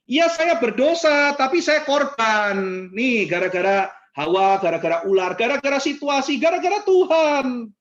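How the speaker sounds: high, slow whining excuses; excuse-making Adam. Retold or imitated. Adam blaming Eve and God, whining. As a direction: whine like Adam shifting blame.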